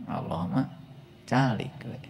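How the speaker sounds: soft unvoiced aside; whispered aside. Preacher whispers the joke about God staying silent. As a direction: whisper it confidentially.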